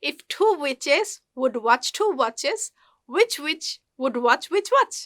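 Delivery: slow "witches" and "watches", each CH crisply released; very slow model of "watch which watch"; CH sound drill. Shown as a demonstration. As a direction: separate "which witch" carefully, sounding every final CH. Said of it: "চা সাউন্ডটা এখানে উচ্চারণ করবার প্র্যাকটিসটা".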